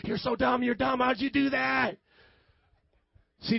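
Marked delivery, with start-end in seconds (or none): 0.0-2.0 lightly acted scolding doctor; half-serious exasperated telling-off; mock angry doctor. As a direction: scold the patient in pretend anger. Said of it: "That's like the doctor saying".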